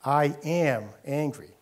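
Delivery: slow, deliberate mock-upset declaration; a hint of upset, drawn out slow; mock angry. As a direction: imitate someone stating their anger, slowly. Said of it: "then you get upset and you say".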